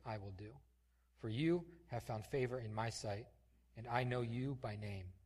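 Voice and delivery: earnest, measured Bible reading; a preacher reading scripture aloud. Acted. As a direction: read the passage with weight. Reads scripture passage aloud.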